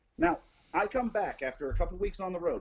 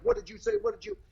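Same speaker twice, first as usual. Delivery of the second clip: imitated yelling; faster than usual. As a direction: mimic someone yelling at you, pitched way up. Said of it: "yelling at me and being like".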